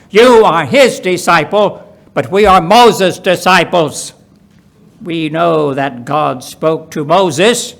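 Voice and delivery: reviling Pharisees. Acted. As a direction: spit out their contempt for this fellow.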